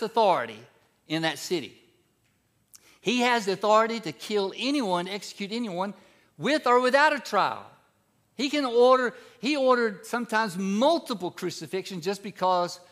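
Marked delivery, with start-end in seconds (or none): 3.0-12.8 louder and higher, building to the peak; rising emphasis. Real, not acted. Preacher stressing Pilate's cruelty to the church, building loud. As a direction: drive home Pilate's power.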